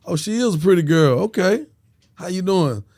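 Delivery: lightly voiced nosy auntie; imitating auntie. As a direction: play an auntie sizing up a girl. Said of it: "My auntie like".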